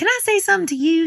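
very high, badly done, put-on Texas accent. Retelling what an eyelash gal from texas said to them, in a bad texas accent. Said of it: "I'm probably badgering her accent".

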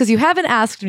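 ordinary talk

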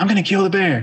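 firmer, insistent repeat. Retelling a scene, the speaker repeats a character's line, retelling saying it louder. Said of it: "say it louder".

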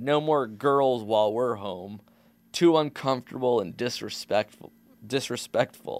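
ordinary delivery

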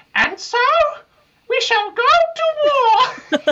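very high-pitched, loud voice. Retelling the line a man says when he stands up, high-pitched voice. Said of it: "he's got a really high-pitched voice".

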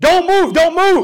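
very loud, very high, shrill scream. Telling a story, the speaker quotes a SWAT cop standing over him, retelling a cop screaming. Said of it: "he is screaming at the top of his lungs".

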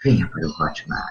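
very low, deep, big sultry announcer voice. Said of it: "eu fazia aquele vozeirão de travesseiro".

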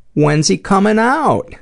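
mock very high, very loud, blurted child's voice. Retelling a story where a kid speaks up after the place falls silent: retelling a kid's loud question. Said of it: "very loudly".

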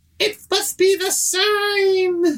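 small, tiny, piping voice, very high. Retelling a scene where a voice speaks from inside a chair, little voice. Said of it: "you hear a little voice from inside the chair say".

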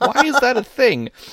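high, loud, incredulous, mocking whine.

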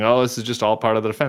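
ordinary talk, nothing marked

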